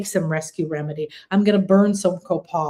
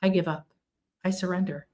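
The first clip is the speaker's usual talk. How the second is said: quiet surrender; 6 dB quieter, faster than usual. Retold or imitated. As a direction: let it go, barely above a murmur. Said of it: "that's the moment to say".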